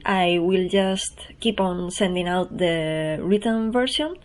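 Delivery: ordinary talk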